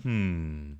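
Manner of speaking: plain regular hmm. Shown as a demonstration. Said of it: "instead of just a regular hmm".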